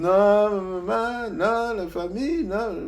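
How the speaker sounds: high-pitched retold refusal, pushed out; Neba refusing. Neba refusing to come along, high and insistent. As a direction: play the friend shaking his head no, high.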